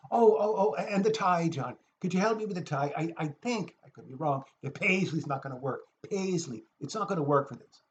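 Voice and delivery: lightly mimicked fretting friend; Declan. Mimicking a friend worrying over his tie, lightly fretful. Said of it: "a five-minute impersonation of Declan".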